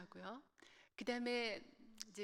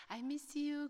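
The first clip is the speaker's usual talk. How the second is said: longing I miss you; 6 semitones higher, much slower than usual. Retold or imitated. Bride calling husband on trip.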